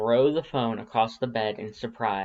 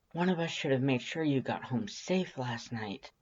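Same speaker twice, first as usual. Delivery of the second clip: softer, subdued regret; softly; 2 semitones higher, 5 dB quieter than usual. Acted. Undyne admitting they should have walked her home, softly. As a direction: drop the volume, let the guilt show. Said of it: "she says softly".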